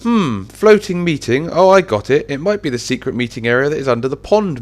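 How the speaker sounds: high, dawning realisation; muse, then pipe up as the answer clicks; exclaiming. Acted. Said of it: "Mihawk exclaimed".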